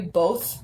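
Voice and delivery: "both" with a long "bow" vowel; Southern pronunciation. Shown as a demonstration. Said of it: "like, B O W".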